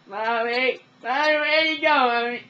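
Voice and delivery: loud, high-pitched wail to Mommy; hammed-up bawling, very high; whining child impression. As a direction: whine at full volume like a protesting kid. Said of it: "I call this the challenge".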